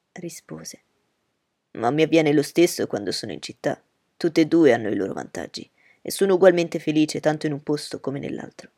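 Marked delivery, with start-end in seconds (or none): 1.7-8.7 put-on louder, eager young gentleman; Bingley's voice. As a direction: reassure her warmly and firmly.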